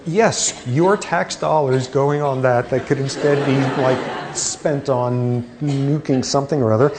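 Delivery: laughing, dry sarcasm; mock the funding with a laugh; sarcastic. Real, not acted. Sarcastic joke about tax dollars.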